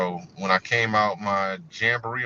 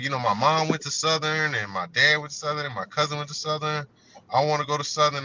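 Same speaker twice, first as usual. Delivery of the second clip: imitating her in a higher pitch; excited girl; 6 semitones higher than usual. Girl at school telling of family at Southern, excited. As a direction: retell her eager, excited listing. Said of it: "she was so excited about it".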